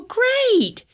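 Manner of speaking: very high, bright sing-song great; triumphant great. Retold or imitated. Grandma cheering her win over the daughter, very high. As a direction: crow it like a small victory.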